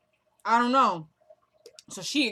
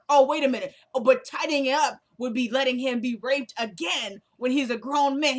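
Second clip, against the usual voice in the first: mock furious retort; 3 semitones higher, 5 dB louder than usual. Catherine confronts Jim angrily.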